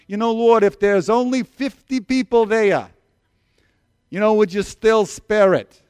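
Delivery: New York Jewish deli guy bargaining, slow; New York Jewish accent. Retold or imitated. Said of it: "New York deli Jewish guy".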